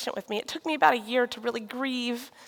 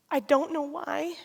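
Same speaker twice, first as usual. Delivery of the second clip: tender whisper; 3 semitones higher, 4 dB quieter than usual. Retold or imitated. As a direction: whisper it gently, like a secret promise. Husband comforting her, whispered.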